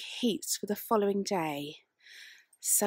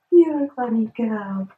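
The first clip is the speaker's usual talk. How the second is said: affectionate dog talk; 9 dB louder than usual. Real, not acted. Talking to the dog.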